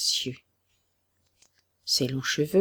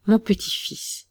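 raised, higher repeat of the call; old man crying out; 5 semitones higher than usual. A narrator's reading. Grandfather calls to his found grandson, raised voice. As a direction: call out the grandson again, tearful. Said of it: "clama le vieillard".

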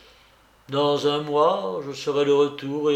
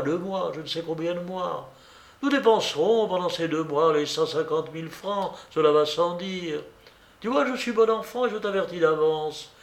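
lightly voiced coquette, pitched higher; a hint of a teasing young woman; Blanche; 3 semitones higher than usual. Blanche bossing the narrator, lightly played higher.

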